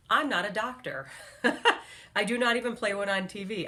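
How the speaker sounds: laughing through a self-mocking joke. Real, not acted. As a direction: chuckle the disclaimer out. Jokes he's not a doctor.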